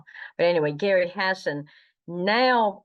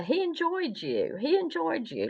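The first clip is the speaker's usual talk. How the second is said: emphatic imitation; 12 semitones higher than usual. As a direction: repeat it high-pitched for emphasis. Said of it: "like that".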